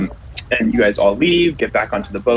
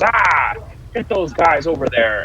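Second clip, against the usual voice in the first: higher-pitched acted yell of an order; 4 semitones higher than usual. Portmaster to his workers at the port, yelling orders. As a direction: call out commands like a portmaster. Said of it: "kind of yelling orders".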